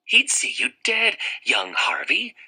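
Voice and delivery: high then whispered insinuation; sly tempter. Acted. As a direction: tempt him under your breath. Jive whispering to Harvey.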